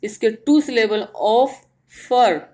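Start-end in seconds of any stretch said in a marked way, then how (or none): 1.2-2.4 ऑफर slowly in two separate beats; split into syllables. Shown as a demonstration. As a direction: pause between ऑफ and फर in ऑफर. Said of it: "दो टुकड़ों में हमने इसको divide किया". (ऑफर को धीरे, दो हिस्सों में बोलें)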